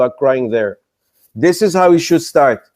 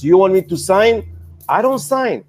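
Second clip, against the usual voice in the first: indignant; 2 semitones higher than usual. Retold or imitated. Investor refusing to sign NDA.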